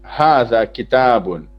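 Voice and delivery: हाजा किताबुन said slowly, each syllable clear; slow Arabic reading. Shown as a demonstration. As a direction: read the answer slowly to the class. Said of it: "उसका answer". (धीरे-धीरे अरबी उच्चारण)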